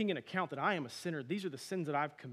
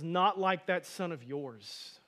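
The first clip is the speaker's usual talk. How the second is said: contemptuous; 4 dB louder, much slower than usual. Retold or imitated. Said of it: "he also says".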